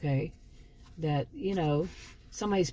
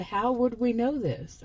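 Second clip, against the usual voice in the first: earnest question; 5 semitones higher, slower than usual. Retold or imitated. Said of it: "I didn't say I was talking to you".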